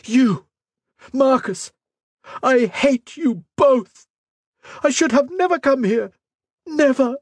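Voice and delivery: high, furious screaming; primal scream. Acted. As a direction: scream it out in rage. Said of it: "she let out a primal scream".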